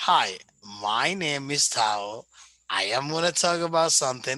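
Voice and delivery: slow, measured delivery with small pauses. Demonstrating how to read a self-introduction aloud to an audience, pausing a little between phrases. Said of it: "try to pause a little bit".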